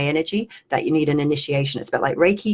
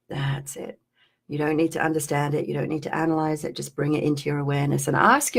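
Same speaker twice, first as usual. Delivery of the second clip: trancey guidance. Acted. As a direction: lull them into noticing the feeling. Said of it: "I'm just gonna do some weird trancey stuff here".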